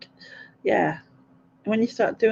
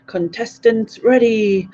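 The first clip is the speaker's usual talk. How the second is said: Gladiators announcer; 3 semitones higher, slower than usual. Retold or imitated. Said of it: "him off the Gladiators who goes".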